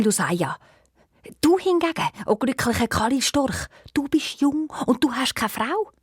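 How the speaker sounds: put-on a stubborn old stork vizier. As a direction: refuse stubbornly, then push the job on the caliph. Voices the grand vizier stork.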